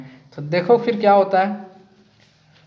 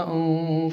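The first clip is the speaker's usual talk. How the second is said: put-on little whimpering sobs like a child; gentle demo of a sobbing child; imitated sobbing; much slower than usual. Shown as a demonstration. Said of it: "सिसकियाँ लेके रोना".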